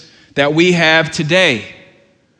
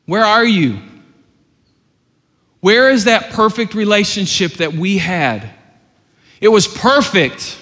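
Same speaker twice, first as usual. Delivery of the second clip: calling out in love. Retold or imitated. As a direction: gently plead for the lost one. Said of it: "he calls out in love".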